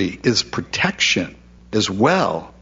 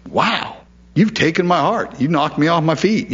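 higher, amazed, lovestruck; smitten wonder; 5 semitones higher than usual. Pretend. Jesus voiced admiring his bride, awestruck. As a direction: gush like someone knocked off their feet.

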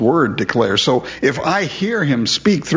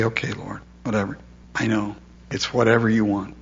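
softly giving in to the Lord; soft surrender; 4 semitones lower, 6 dB quieter, faster than usual. Retold or imitated. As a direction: let it go quietly, almost under the breath. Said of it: "Sometimes just to say".

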